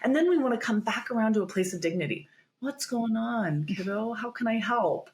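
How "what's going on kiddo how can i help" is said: gentle caregiver. Acted. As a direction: ease in gently, like a caring teacher. Teacher gently addressing a child.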